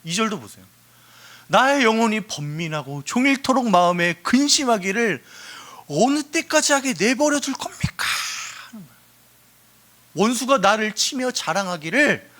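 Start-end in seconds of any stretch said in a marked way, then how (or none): 1.5-8.0 acted lament rising to a high cry; anguished appeal, played up. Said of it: "탄식하면서 하나님한테 호소하고". 10.1-12.3 acted cry breaking into a strained whisper; anguished lament turning whispery; lamenting appeal. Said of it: "탄식하면서 하나님한테 호소하고".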